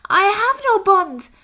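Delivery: small and worried; nervous squirrel. Acted. Squirrel answers the rat.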